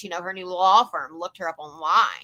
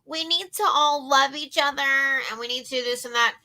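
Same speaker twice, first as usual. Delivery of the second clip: higher, sing-song mock of a preachy tone; mocking high and mighty; 4 semitones higher than usual. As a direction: parody her holier-than-thou sermon. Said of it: "talk all high and mighty".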